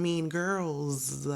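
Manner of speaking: put-on "girls" drawn out slowly to its plural ending; heavy final S. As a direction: linger on the end of "girls" to mark the plural. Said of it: "That is a heavy S on the end".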